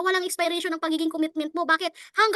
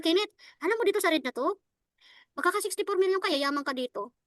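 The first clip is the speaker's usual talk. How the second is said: unexcited pitch; 5 dB quieter than usual. Shown as a demonstration. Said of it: "Mukha ba akong na-excite?".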